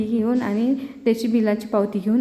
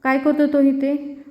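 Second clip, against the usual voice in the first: mother scolding her daughter, mildly hammed; imitating a mother's scolding yell; shouting at her; 4 semitones higher than usual. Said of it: "मग त्या ऐश्वर्याला ओरडते".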